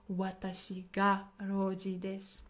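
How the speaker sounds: "Watashi ga" carefully stressed before "roji desu"; emphasis on self. Shown as a demonstration. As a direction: give "Watashi ga" the weight. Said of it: "put emphasis on yourself".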